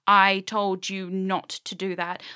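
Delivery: slow, heavy retold anger; raging. Raging at the guy who broke her one rule, slow and heavy. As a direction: lay into him slowly, each word weighed. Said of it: "So I started raging at him".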